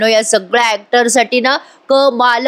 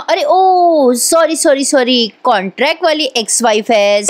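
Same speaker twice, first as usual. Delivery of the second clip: mock apology; 3 semitones higher than usual. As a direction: sneer through the correction. Priya mockingly corrects herself.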